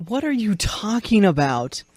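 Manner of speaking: real baffled disbelief; thoroughly baffled question; incredulous. Real, not acted. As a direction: react as if it makes no sense at all. Baffled by absurd spider explanation.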